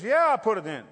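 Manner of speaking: loud, firm yes from the gas attendant; pump attendant insisting. Retold or imitated. Gas attendant loudly insisting he filled the tank. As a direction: bark it back as the attendant. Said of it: "He goes".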